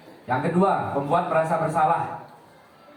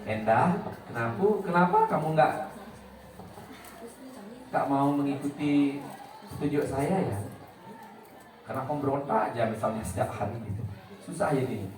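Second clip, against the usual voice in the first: sarcastic scolding; 2 semitones lower, 5 dB quieter than usual. Shown as a demonstration. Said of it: "nyindirnya itu nyindir habis".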